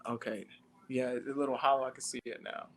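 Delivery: hollow, choppy connection; inside a fishbowl. Real, not acted. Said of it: "it sounds like you're in a fishbowl".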